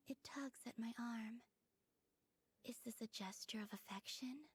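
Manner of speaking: breathy, hushed murmur throughout; hushed whisper. Acted. Soft whispered voice.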